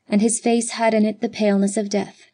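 ordinary delivery, nothing marked

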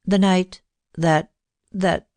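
Cynthia halting over a shy memory, hesitant pause. A narrator's reading. Miss Cynthia confiding to Judith, shy hesitant halting. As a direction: stumble on "that, that," with a pause between. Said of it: "she hesitated".

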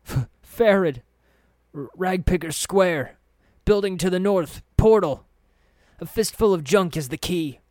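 high, loud, stammering panic; terrified wailing. Acted. Tortured thug blurting the secret to his captor, wailing in terror. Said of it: "he wailed".

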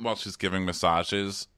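ordinary talk

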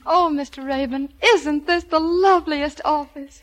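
put-on slow, gushing Southern belle accent; phony Southern accent. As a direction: gush with a put-on Southern drawl. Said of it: "Pardon me if I dropped my southern accent".

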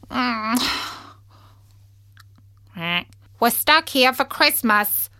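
a fussy duck talking. Acted. Duck character voice.

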